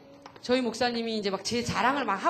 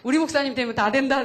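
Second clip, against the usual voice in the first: excited cheer; 5 dB louder than usual. Retold or imitated. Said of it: "내가 막 그랬는데".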